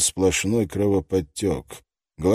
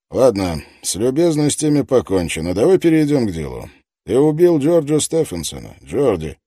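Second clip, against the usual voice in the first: loud, pushy interrogator; tough detective voice; 6 semitones higher, 7 dB louder than usual. Acted. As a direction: press him hard, loudly. Detective presses the suspect.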